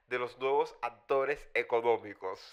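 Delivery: a hint of a Communist Party official reading a report; party cadre jargon. Host borrows the Party cadre's official phrasing, lightly mocking. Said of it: "voy a decirlo a modo del cuadro del Partido Comunista".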